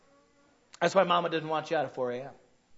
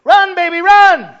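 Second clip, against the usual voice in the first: high, loud mock cheer; mock cheering parent; 12 semitones higher, 18 dB louder, slower than usual. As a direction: cheer the child on, absurdly. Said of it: "what adult ... goes".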